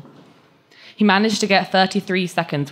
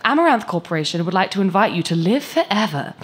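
ad voice; 4 semitones higher than usual. Acted. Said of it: "it said".

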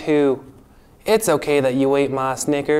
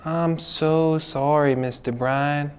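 sorry; 3 dB quieter, slower than usual. Acted. Apologizes a second time.

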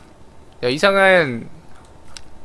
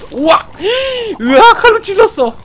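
high, loud thrilled shout; excited yell; 6 dB louder than usual. Real, not acted. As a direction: shout at the surprise kill. Sudden stealth stab.

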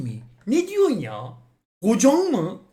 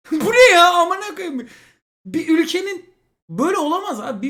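laughing outburst; 11 semitones higher, 10 dB louder than usual. Real, not acted. Reading absurd porn titles.

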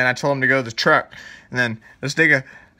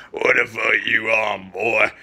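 put-on slow, drawn-out old grandpa voice; put-on grandpa drawl of disapproval; grandpa impression; 3 semitones lower, slower than usual. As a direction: imitate a grandfather, dragging out the words. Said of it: "he sounds like this".

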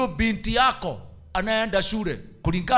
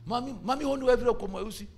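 higher-pitched mock protest of a son; 3 semitones higher, faster than usual. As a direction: imitate a son arguing back to mum. Voices a son arguing back.

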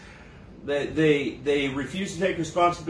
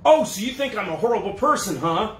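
mock indignant; 4 semitones higher, 3 dB louder than usual. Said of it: "they'll say".

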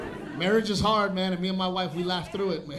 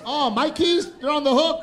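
innocent wife; 6 semitones higher than usual. Retold or imitated.

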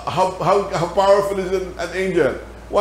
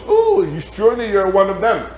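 high-pitched "Oh", then pointed accusation; accusing damsel; 5 semitones higher than usual. Acted. Damsel to Peter at the bonfire, high accusing voice. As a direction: play the damsel spotting someone, voice jumping high. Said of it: "The damsel goes".

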